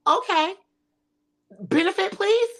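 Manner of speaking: high, rising, incredulous plea; exasperated demand. Real, not acted. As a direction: insist on an answer, pitch climbing. Demanding an answer.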